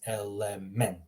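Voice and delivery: "element" with all three E's short; teacher's demo of "element" with three short E vowels. Shown as a demonstration. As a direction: say "element" with short, open E in every syllable. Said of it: "All three of these were short E's".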